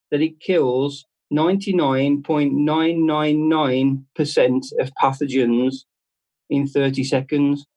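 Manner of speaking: "ninety-nine point nine nine nine" read out slowly, each nine drawn out; deliberate slow read of "ninety-nine point nine nine nine"; slow label reading. Shown as a demonstration. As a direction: spell out the figure slowly like reading small print. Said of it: "it actually says on this".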